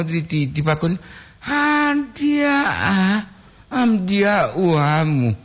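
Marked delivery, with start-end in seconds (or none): 1.4-5.3 "Amdiah" cried out much higher, then "amdiah uamu" slow; full of feeling. Shown as a demonstration. Streamer rereads the line with exaggerated emotion, crying tone. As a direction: wail "Amdiah" high like a sob, then slow down. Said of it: "Penuh perasaan".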